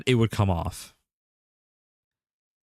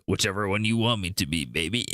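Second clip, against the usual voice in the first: low, soft come-on; playful seductive answer, sinking lower; mock seduction; 3 semitones lower, 4 dB quieter than usual. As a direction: drop down into a jokey flirt. Jokey seductive answer to own question.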